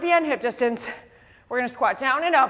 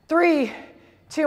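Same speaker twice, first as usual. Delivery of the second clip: hoarse, strained voice; losing your voice mid-count. Real, not acted. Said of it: "I'm losing my voice".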